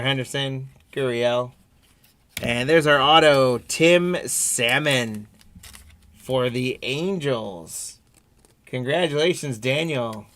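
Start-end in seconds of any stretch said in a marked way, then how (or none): 2.4-7.9 excited. Real, not acted. Pulling an autograph card live.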